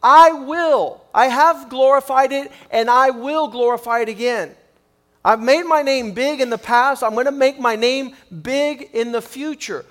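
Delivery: loud, proclaiming heavenly voice; loud, majestic divine declaration; voice of God. Acted. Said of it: "a voice came from heaven saying".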